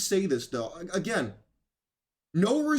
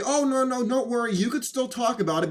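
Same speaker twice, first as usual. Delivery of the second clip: mock reassurance; 6 semitones higher than usual. Media bosses placating a host.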